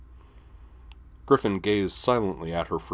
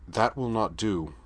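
slightly sharp; 3 semitones higher than usual. Acted. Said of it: "her voice ever so slightly sharp".

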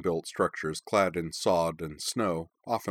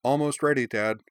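high, louder call to another room; calling back; 6 semitones higher, 3 dB louder than usual. A narrator's reading. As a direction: call out much higher and louder. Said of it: "Karana called back".

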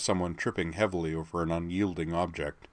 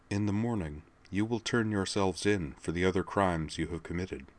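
cold quiet command; 6 dB quieter than usual. Acted. Laura coldly dictating terms.

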